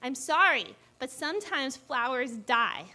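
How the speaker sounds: mild mock anger, words stretched out; retold exasperation. Defending herself to boyfriend over dead flowers, mildly mad. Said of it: "I would get so mad".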